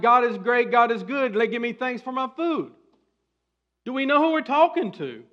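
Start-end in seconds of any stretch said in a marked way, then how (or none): 0.0-2.7 mock rote mealtime prayer, high and loud; passionless rote prayer. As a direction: rattle off a child's grace in parody. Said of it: "Is there really passion in there?".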